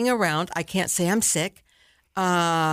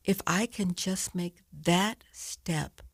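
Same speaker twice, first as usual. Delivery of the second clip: slow inspirational close; 2 semitones lower, slower than usual. Real, not acted. Closing inspirational message, slowing.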